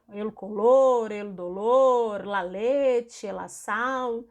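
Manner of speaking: el color, el dolor, slow and careful in Spanish; Spanish words. Shown as a demonstration. Teacher lists Spanish gender examples slowly for students. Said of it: "mais alguns heterogenéricos".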